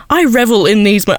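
put-on half-hearted try at a British accent; faintly put-on British accent, abandoned midway; attempted British accent. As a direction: start imitating a British accent, not quite managing it. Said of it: "I can't do a British accent".

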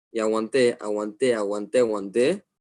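each aguanté pressed down tighter; aguanté said over and over, restrained; holding back. Real, not acted. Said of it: "hasta que exploté".

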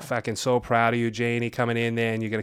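put-on thick Boston accent, lightly done; playful Boston townie talk. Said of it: "do your Boston accent before we go".

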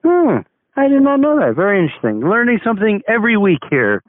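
exaggerated surprise. Host's exaggerated fascination.

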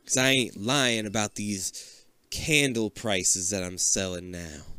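slow, soft laid-back rapper voice; a lightly voiced rapper impression; mock rapper. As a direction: lean back and drawl it out.

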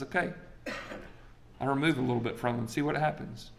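soft, offhand agreement; calm concession. Retold or imitated. God granting Satan leave to test Job, calm and quiet. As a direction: grant it quietly, well below full voice.

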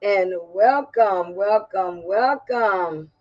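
country accent. Real, not acted. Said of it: "I sound so country".

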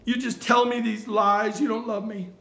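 a touch of a pouty voice; pouty whine. Retold or imitated. Delilah complains to Samson in a light pouty whine. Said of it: "This pouty face".

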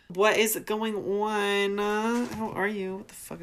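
high silly voice. Acted.

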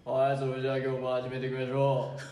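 low, calm fitness-channel host; lightly voiced laid-back muscle guy; macho YouTuber voice. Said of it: "モノマネするね".

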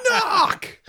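very high, loud bratty yell; imitating the daughter's shrill demand; daughter's knock. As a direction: snap the order like an offended kid. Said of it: "She goes".

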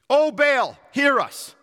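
loud, high cry to their god; pagans praying. Acted. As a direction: call out as a worshipper beseeching an idol. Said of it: "these pagans are praying".

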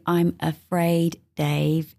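slow, even robot voice; robotic voice. Retold or imitated. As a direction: say it like a calm computer. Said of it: "in that robotic voice".

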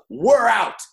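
mock curt exit. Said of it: "he snaps and he goes".

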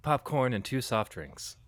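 put-on American accent at normal pitch; understated American movie-promo voice. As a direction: drop into a plain American accent. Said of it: "can you put on your American accent".

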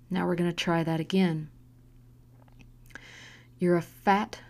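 level, calm cruelty; calmly. Acted. Mother calmly repeating the insults as a test. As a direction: say the insults evenly, almost kindly. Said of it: "Ava said calmly".

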